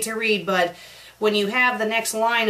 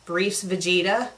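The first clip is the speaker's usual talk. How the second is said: slow, doubting reread of "Briefs Vegeta"; rising disbelief on "Briefs Vegeta"; incredulous question; 3 semitones lower than usual. Shown as a demonstration. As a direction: say "Briefs Vegeta" slowly as if it can't be right. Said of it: "Wait a minute".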